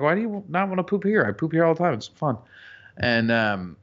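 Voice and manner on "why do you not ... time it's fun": high, coaxing parent voice; coaxing dad. Retold or imitated. Dad coaxing a scared toddler to poop, high and sing-song. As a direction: sell the toilet to a toddler. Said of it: "I'm like".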